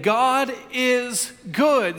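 slow, drawn-out call to the congregation; slow rallying declaration; leading a congregation's response. Real, not acted. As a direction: stretch each word so they can join in. Leads congregation to repeat it.

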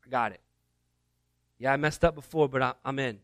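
quietly all in after failing; humbled reply. Retold or imitated. Peter answers Jesus, softly and humbly committing.

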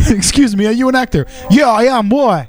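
high, mock British exchange; hammed-up British accent. Acting out asking the street actor, mock British accent. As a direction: do both sides in a silly high British voice. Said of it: "Do you like my British accent?".

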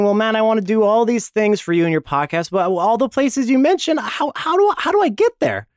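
imitating a listener. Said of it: "I know you're thinking".

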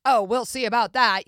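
lightly voiced confident leading man; rom-com suitor. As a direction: play the undeterred rom-com guy. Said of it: "And the guy's like".

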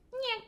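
high-pitched mimicked gush of water; imitated faucet noise. Showing how hard the rain sounded, imitated faucet noise. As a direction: voice a running faucet. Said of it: "it sounds like a faucet just".

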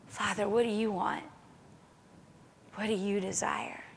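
soft, unhurried asking of the Father; hushed, tender question in prayer; intimate prayer. Acted. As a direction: ask softly, close to God. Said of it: "it should be intimate".

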